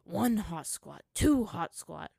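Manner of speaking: slow, loud, heavy count; grudging exercise count; resigned counting. A narrator's reading. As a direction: count reluctantly with falling tune. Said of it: "Zuko sighed".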